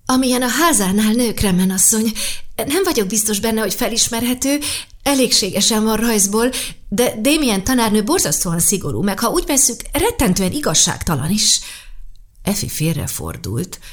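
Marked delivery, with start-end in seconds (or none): 0.0-11.6 trembling voice. Acted. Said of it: "Sasha hangja remegett".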